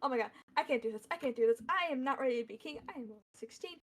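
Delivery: fast, spiralling nervous babble; anxious rush, trailing away at the end; panicking young king. Acted. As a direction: rattle it off in mild panic. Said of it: "and now she's like".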